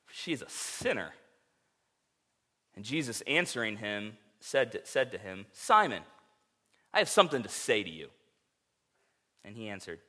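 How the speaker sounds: measured, solemn Bible reading; reading scripture aloud from the pulpit, solemn and measured. Acted. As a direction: read the gospel passage to the congregation.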